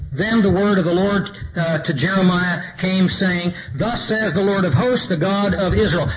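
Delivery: measured reading of the verses; scripture reading. Acted. Preacher reading Jeremiah to his congregation, measured scripture voice. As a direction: read it out to the church, steady and deliberate.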